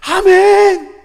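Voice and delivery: loud, high, instant response; eager amen. Acted. Believer answering God's love, loud and eager. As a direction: fire back a big amen.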